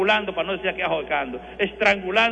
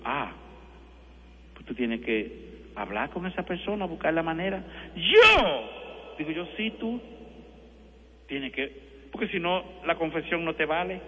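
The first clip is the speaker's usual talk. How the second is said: hushed, softer pastoral advice; quiet counsel; 6 dB quieter than usual. Retold or imitated. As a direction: priest quietly advising a penitent. Priest retells his quiet counsel.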